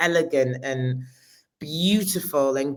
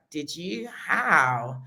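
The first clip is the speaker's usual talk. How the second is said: dry deadpan; much slower than usual. Retold or imitated. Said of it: "his humor is so dry".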